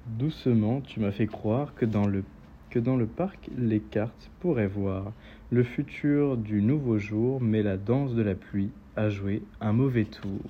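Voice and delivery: slow, measured verse recitation; unhurried poetry reading with pauses; poem reading. Acted. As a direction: recite with lingering phrase endings. Reads a poem aloud.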